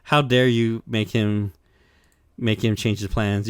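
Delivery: hammed-up outraged sisters; mock furious. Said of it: "the sisters are super pissed".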